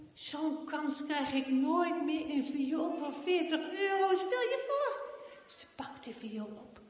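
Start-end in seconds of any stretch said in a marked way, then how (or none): 0.1-5.1 put-on higher, louder eager girl; girl pleading with dad for the violin; excited pleading. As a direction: beg with shining eyes. Heidi begs excitedly.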